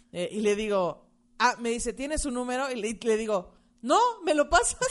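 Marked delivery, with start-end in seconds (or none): 3.8-4.8 laughing. Retold or imitated. Mocks her own silly request.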